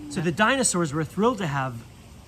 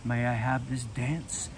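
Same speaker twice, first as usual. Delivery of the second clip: shy; 4 semitones lower, 4 dB quieter than usual. Acted. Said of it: "Buzz smiled shyly".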